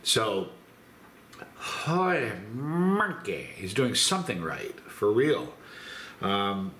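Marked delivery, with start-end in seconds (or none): 1.6-3.5 amazed exclamation. Real, not acted. Reacting to sweet heat.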